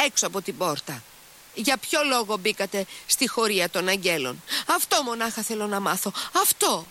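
put-on high, insistent girlish outburst; stubborn girl, pitch climbing; exclaiming. A narrator's reading. Lise questioning him from behind the door, exclaiming. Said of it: "ξεφώνησε η Λις".

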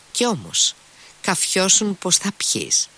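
ψηλή, αργή φωνή που φωνάζει επίμονα; ανέβασε τη φωνή, σαν να διατάζεις να πιει; φώναξε. A narrator's reading. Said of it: "φώναξε ο Ρακίτιν". (αργή επιτακτική φωνή πιο ψηλά)

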